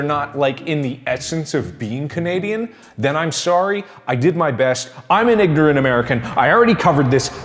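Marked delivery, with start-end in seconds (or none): 5.1-7.3 exasperated shout. Pretend. Loud defensive rant.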